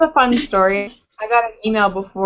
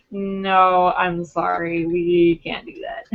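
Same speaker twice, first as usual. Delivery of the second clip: slower, drawn-out polite no, imitated; retold apologetic refusal; 3 semitones lower, much slower than usual. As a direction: mimic a friend regretfully declining. Friend declining the photo again.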